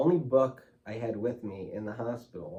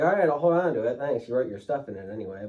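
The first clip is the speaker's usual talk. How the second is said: Dominic's reply; 3 semitones higher, 7 dB louder than usual. Retold or imitated. Brother Dominic quoted.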